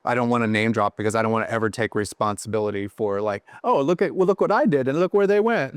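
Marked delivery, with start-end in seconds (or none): 3.6-5.8 high, sing-song mock bragging; put-on, high-pitched show-off voice; mock boasting. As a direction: imitate someone crowing over their own success. Voicing a boastful name-dropper, disowned.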